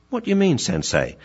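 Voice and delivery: high question, dropping on the title; puzzled young pupil. Acted. Dog asking Sensei to explain, high puzzled voice. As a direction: ask the master, bewildered. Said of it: "see what Grasshopper has to say".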